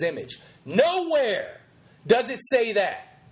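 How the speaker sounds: emphatic pulpit challenge; preacher's challenge. Acted. Host quoting the preacher against Christian feminists, preacherly challenge. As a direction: hammer each point like a preacher.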